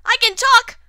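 talking through closed lips; words pushed out with the mouth shut. Shown as a demonstration. Showing off, talking with lips sealed. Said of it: "I can talk with my mouth closed".

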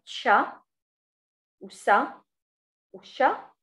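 "تشا", "سا", "شا" each isolated and clear; sound demo. Shown as a demonstration. Teacher sounding out endings for students. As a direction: model each hissing sound alone. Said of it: "الأصوات التالية".

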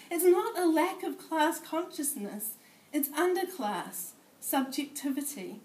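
measured spoken-word poetry reading; poem reading. Acted. Poet reading her piece to a room of sociologists, measured recital. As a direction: read it as a performed poem.

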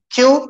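teacher models "Queue" with a lifted rising tone; model pronunciation. Shown as a demonstration. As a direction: say "Queue" clearly for the class to repeat. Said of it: "Repeat after me".

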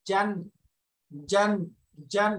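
"জান" with mid-tongue against the palate; mid-tongue jim. Shown as a demonstration. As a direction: drill "জান" as separate, firm syllables. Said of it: "জিহ্বার মাঝখান উপরে তা".

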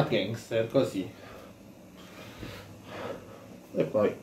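muffled by cloth over mouth; speaking behind a face covering; through a cloth bandana. Real, not acted. Seen 2: Red bandana covers nose and mouth throughout; untied after 4.5.

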